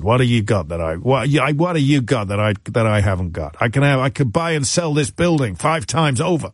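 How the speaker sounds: lightly voiced American tycoon, slipping toward Welsh; a hint of Welsh in an American scoff; botched American accent. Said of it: "He was Welsh, this American tycoon".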